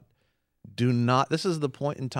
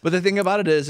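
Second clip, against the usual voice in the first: laughing high and loud; 8 semitones higher, 7 dB louder, faster than usual. Real, not acted. Host recovering from a joke, laughing. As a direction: still laughing as he gets back on track.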